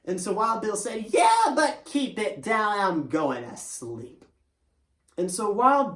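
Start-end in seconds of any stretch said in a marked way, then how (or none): 1.1-4.2 slow, drowsy warning; sleepy. Acted. Sleepy Tempo telling Wild Bill to keep it down, slow. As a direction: mumble it, nearly asleep.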